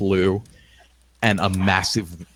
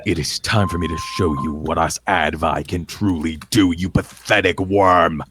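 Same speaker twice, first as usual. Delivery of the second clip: menacing warrior. Acted. Powerful fighter threatens his foe.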